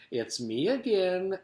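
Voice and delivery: high, sloshy cook's voice; sloshing, muddy voice. A narrator's reading. Miss Mush at the door, in sloshy singsong. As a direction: slosh the words cheerily upward. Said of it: "like two boots sloshing through mud".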